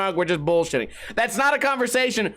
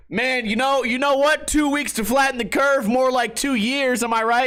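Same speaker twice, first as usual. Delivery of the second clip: higher-pitched mock ranting clerk; ranting store clerk; 5 semitones higher than usual. Store clerk griping to customer about masks, mock ranting. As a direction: imitate a chatty guy pushing his opinion. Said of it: "would not shut the fuck up about the masks".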